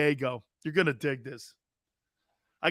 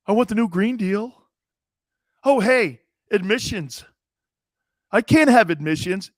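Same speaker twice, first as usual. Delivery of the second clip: mock snowflake; 3 semitones higher, 5 dB louder than usual. Acted snowflake in a skit.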